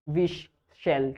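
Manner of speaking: विश, शेल said slowly with a long "sh"; slow, stretched "sh" in विश and शेल; demo of sh sound. Shown as a demonstration. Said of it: "श की voice". ("विश", "शेल" धीमे, लंबी "श" ध्वनि)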